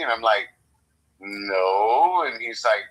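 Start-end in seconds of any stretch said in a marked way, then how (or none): 1.2-2.2 long, low "no" with a slight swell in pitch; drawn-out "no". Retold or imitated. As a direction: stretch out "no" as an unconvincing denial. Re-enacts his unconvincing lie to cop.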